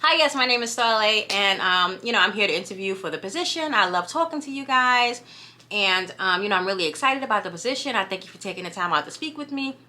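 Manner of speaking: New York accent toned down to interview politeness; dumbed-down New York accent. Shown as a demonstration. Candidate greeting interviewers for a position, New York accent dumbed down. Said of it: "That's me dumbing my accent down".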